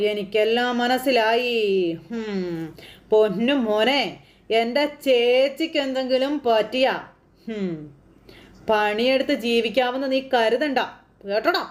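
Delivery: slow, hammed-up villain threat; mock threat. Uncle threatening the son-in-law, slow mock menace. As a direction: deliver it like a big film dialogue. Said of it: "വലിയ dialogue അടിക്കുമ്പോൾ".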